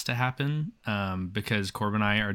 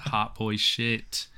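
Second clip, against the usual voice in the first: drawn out; much slower than usual. Pretend. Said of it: "All very cute and hot boy shit".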